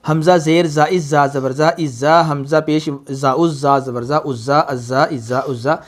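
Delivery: mock rushed spelling. Shown as a demonstration. Teacher showing how some people wrongly rush it. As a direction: show the wrong quick way. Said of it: "बाज़ लोग इसको पढ़ते हैं".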